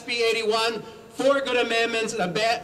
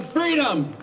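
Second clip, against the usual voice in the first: rally cry; 3 semitones higher than usual. Shown as a demonstration. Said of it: "celebrate it by yelling".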